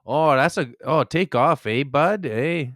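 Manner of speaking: mock Canadian accent for a joke. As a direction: lightly parody a stereotyped Canadian accent. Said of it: "Canadians don't talk like".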